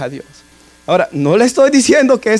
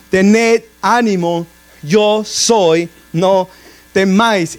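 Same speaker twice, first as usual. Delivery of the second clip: solemn Jesus; much slower than usual. Acted. Preacher voices Jesus speaking.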